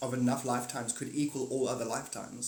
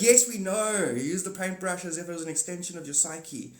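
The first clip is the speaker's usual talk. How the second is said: mock bored students; 4 semitones higher, 4 dB louder than usual. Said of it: "you're like".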